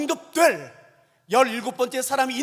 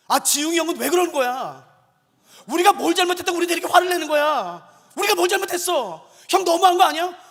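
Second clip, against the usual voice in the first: loud, high-pitched mock outrage; imitating a heated grumble, pitch climbing; retold indignant complaint; 6 semitones higher, 6 dB louder than usual. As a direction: protest it like an aggrieved junior. Acts staff member's angry complaint.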